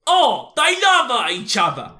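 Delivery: hammed-up British accent, doting on the lovers; slow, swooning British voice as a famous drummer; a musician's British accent. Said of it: "that's what Ringo says".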